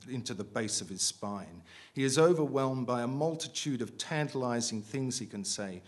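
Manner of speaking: measured, projected reading aloud; story narration. A narrator's reading. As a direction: read the prose out deliberately to a room.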